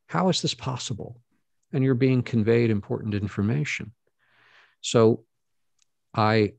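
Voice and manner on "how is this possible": mock-wondering rhetorical ask, pitched higher; rhetorical question. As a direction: toss it out as a marvelling question. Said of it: "give the rhetorical how".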